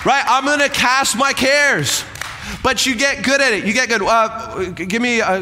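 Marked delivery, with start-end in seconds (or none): 0.3-2.0 bold declaration. Pretend. Pastor voicing the believer's declaration.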